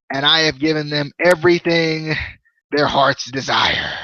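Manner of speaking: slow, deliberate wrestling promo; James Storm promo. Retold or imitated. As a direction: deliver a measured pledge to the faction. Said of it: "James Storm cuts a promo".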